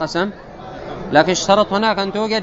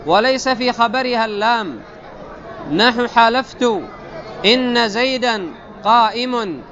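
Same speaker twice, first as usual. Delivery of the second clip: slow, higher-pitched formal recitation; reading text aloud; 4 semitones higher, slower than usual. Acted. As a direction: recite the textbook in measured, drawn-out phrases. Reads the grammar text aloud. (قراءة المتن بتمهل ونبرة عالية)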